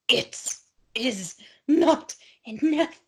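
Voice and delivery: halting, word-by-word melodrama; very slow with dramatic pauses; melodramatic. Acted. Narrating insatiable greed to co-host, slow melodrama. Hammed-up reading of towel hoarding.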